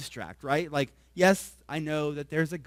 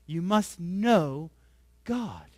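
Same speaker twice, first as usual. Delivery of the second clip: slow "You must know" with weight on "must"; slow, emphatic repeat; stress on MUST; much slower than usual. Shown as a demonstration. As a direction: press the word "must", slowly.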